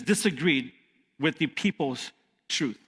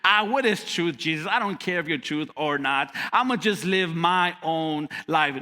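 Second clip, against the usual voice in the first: shrugging Pilate. Retold or imitated. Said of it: "Just imagine him shrugging his shoulders".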